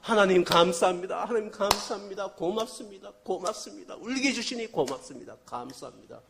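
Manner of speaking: loud, overjoyed prayer, fading at the end; joyful thanks. Retold or imitated. Retelling the pastor thanking God for the child's crying, overjoyed and loud. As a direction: thank God as if your heart is bursting, then let it drop. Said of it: "막 울었대요".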